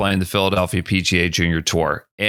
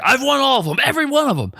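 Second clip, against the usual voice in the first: imitating a cocky rival; 14 semitones higher, much faster than usual. Cocky rival gets in his face.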